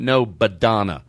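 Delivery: No, Badonna with a firm B; correcting someone, annoyed; correcting the name. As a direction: stress on NO and the B of Badonna. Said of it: "She went".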